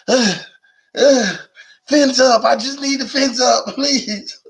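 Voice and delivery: fake-sob like a desperate addict; hammed-up tearful junkie begging; mock crying plea. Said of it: "I can't take rehab".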